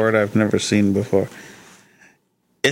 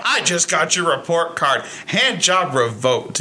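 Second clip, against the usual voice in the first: slightly raised, hammed-up announcement; mock enforcer bursting in; 4 semitones higher than usual. Bursting into the bedroom to revoke a privilege, mock-official announcement. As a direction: announce a pretend ruling, drawing out the verdict. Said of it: "you burst into the bedroom".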